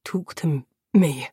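low, stammered plea; begging. A narrator's reading. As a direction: beg weakly through pain. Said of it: "he begged".

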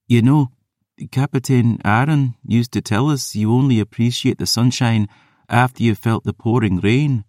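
haunted Scots maid; Ossian brogue. Acted. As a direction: murmur it in a Scots lilt. Isla's voice.

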